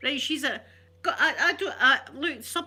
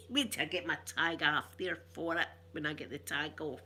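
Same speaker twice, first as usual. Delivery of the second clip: lower, softer mock wail through laughter; laughing imitation of crying woman; 5 semitones lower, 5 dB quieter than usual. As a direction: retell her tearful threat while laughing. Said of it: "she's crying".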